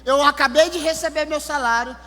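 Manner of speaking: crying. Retold or imitated. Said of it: "ela começou a chorar".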